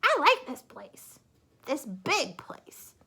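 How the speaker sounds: high, loud eager voice; Missus Bird delighted. Acted. Missus Bird excited about the flag house, high and loud. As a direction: gush over the flag.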